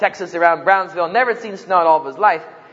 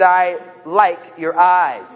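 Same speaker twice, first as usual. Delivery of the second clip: insisting; much slower than usual. Retold or imitated. Insisting on a compliment.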